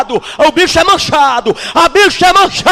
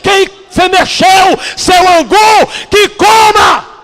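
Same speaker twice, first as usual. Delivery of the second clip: louder and higher, the last words slow and drawn out; preaching shout; 4 semitones higher, 4 dB louder, slower than usual. Acted. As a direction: hammer each phrase home to the pews. Preacher thundering at the congregation.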